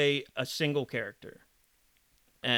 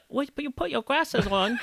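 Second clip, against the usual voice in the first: higher-pitched put-on Asian accent; mock Asian accent on request; Asian accent demo; 9 semitones higher than usual. Shown as a demonstration. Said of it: "do an Asian accent".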